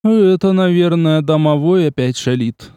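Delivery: lightly voiced uneasy lady; frowning Agnes. A narrator's reading. Agnes to the men at dinner, lightly frowning. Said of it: "нахмурившись".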